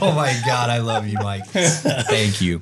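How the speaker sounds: catching breath between laughs; after laughing hard. Real, not acted. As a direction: still laughing through the words. Recovering from a big laugh.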